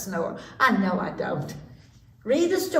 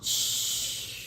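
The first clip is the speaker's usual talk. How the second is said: soft unvoiced shush; hushing; 6 dB quieter than usual. A narrator's reading. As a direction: hush the listeners gently. Narrator hushes listeners.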